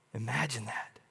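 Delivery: near-whisper, low and soft; hushed aside. Real, not acted. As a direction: drop to a hush of wonder. Hushed awe aside after Scripture reading.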